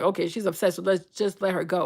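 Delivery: low, soft aside, letting it drop; calm resignation. Retold or imitated. Letting a screaming friend go on the phone, calm resignation. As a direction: retell it quietly, without any fight. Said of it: "I didn't yell at you".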